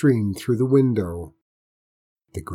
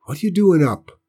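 sharp, high demand; 7 semitones higher, 6 dB louder than usual. A narrator's reading. Boy confronting Grandpa at night, demanding. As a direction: call him out for sneaking. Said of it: "John Robert demanded".

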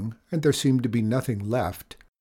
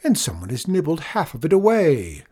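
raised, put-on voice of protest; shouting; 5 semitones higher, 3 dB louder than usual. A narrator's reading. Farmer accuses someone of eating the moon, shouting. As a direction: complain in a raised voice. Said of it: "shouted Nagel".

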